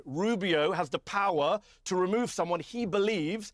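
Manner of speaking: slow, spelled-out explanation; slow down and spell it out phrase by phrase; deliberately slow. Real, not acted. Debater explaining the law again to an opponent, deliberately slowly. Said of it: "let me say it slowly then".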